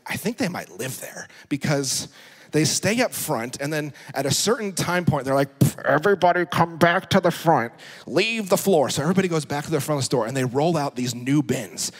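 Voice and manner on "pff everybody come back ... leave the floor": calling out. Retold or imitated. Imitating store staff calling out.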